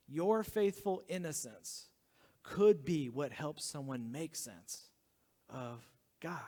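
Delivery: slowly spelled out, word by word; slow, deliberate. Shown as a demonstration. Pastor to congregation, slow emphatic repeat. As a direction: lean on each word slowly. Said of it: "it goes like this".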